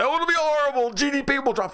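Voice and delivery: high, mocking voice of the fearmongers; mocking quote. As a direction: sneer it in a whiny falsetto. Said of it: "When they say".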